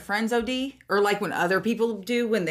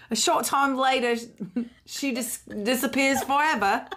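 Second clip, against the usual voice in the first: put-on English accent; 2 semitones higher than usual. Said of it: "She went into English accent".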